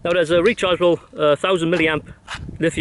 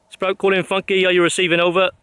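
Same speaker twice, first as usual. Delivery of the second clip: crisp radio operator call-out, raised; 4 semitones higher than usual. Acted.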